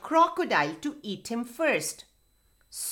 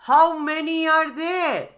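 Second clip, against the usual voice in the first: loud, high call; 5 semitones higher, 6 dB louder than usual. A narrator's reading. Crocodile to mouse deer on far bank, calling out. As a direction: shout the question across the river. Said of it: "called out the crocodile".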